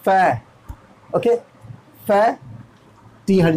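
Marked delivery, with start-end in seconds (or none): 0.0-0.4 फै with an open æ, neither फे nor फा; teacher corrects फे to फै; फै demo. Shown as a demonstration. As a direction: say फै with a wide æ vowel. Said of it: "फे भी नहीं".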